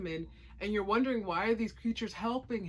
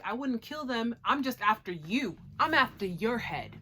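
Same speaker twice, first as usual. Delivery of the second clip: defiant retort; 2 semitones higher, 6 dB louder than usual. Retold or imitated. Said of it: "Kabane is like".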